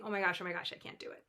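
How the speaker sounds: breathless frightened whisper fading out; panicked whisper. Acted. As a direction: whisper it like a scared kid before a match. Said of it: "she starts saying".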